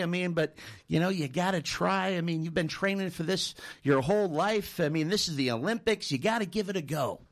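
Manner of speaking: lightly acted reassuring coach; pep talk. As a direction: coax a nervous athlete along. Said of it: "little pep talk".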